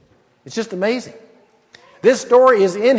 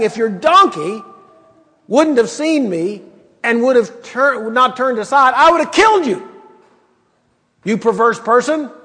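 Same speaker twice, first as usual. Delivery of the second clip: stern rebuke; 3 semitones higher than usual. Retold or imitated. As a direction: scold him, climbing in pitch. Preacher voicing the angel's rebuke.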